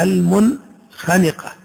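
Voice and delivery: المنخنقة slowed, ن sounded clearly before خ; very slow teaching read; clear nun. Shown as a demonstration. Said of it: "تقرأ".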